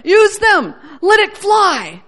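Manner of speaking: a lightly voiced encouraging Lord. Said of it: "And the Lord says".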